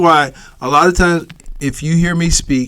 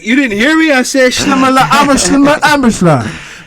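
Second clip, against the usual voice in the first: high, loud mock-indignant mumbling; 9 semitones higher, 4 dB louder than usual. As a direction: protest in hammed-up nonsense mumble, pitched up. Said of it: "I have a mumbling problem".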